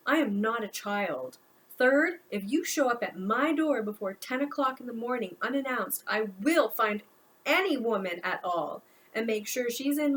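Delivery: a fed-up son finally unloading on his mother; pouring out. Acted. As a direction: let it all pour out at her. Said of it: "it all just poured out of him".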